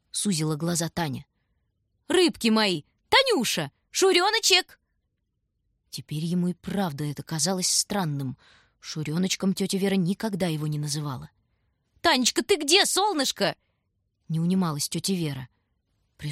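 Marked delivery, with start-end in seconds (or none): 2.1-4.8 high, loud honeyed call; sweet calling. A narrator's reading. Aunt Vera calls for the children, high and sweet. 12.0-13.6 high, loud honeyed call; sweet calling. A narrator's reading. Aunt Vera calls for the children, high and sweet.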